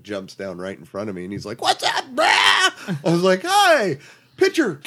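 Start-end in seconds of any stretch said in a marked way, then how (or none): 1.6-2.2 very high goofy bro voice; high dude greeting. Retold or imitated. Imitating David Arquette greeting. 3.4-4.8 very high excited fan voice; starstruck squeak. Retold or imitated. Starstruck asking for selfie.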